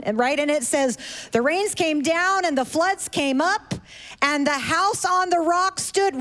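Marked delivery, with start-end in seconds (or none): 1.3-6.2 singsong puppet show host. Acted. Reciting song to kids.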